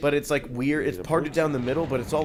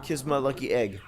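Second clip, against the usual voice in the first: Cool Runnings voice; 4 dB quieter than usual. Retold or imitated. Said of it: "I like to do the voice".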